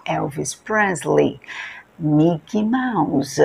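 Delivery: slow reading of a singer's name and Mickey Mouse, final ee drawn out; final ee sound. Shown as a demonstration. Teacher drilling the ee ending, slow. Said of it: "pronunciadas como se fosse um I".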